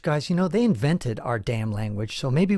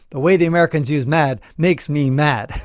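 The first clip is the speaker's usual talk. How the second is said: a hammed-up Brit, louder and laughing at it; louder mock British complaint; 6 dB louder than usual. Host imitating British people annoyed by American mad, mock loud. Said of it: "The British people will say".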